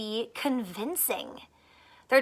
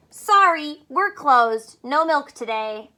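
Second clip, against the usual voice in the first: loud note voice; 6 dB louder, slower than usual. Acted. Cows' note on barn door.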